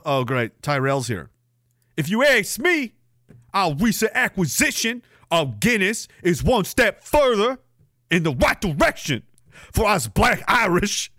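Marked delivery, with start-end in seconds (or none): 2.0-11.1 lightly voiced pompous commenter, higher in spots; a hint of a self-important speech, slowing at the end; reading a chat persona. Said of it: "Tyrell Blackmore of Cult forty-five".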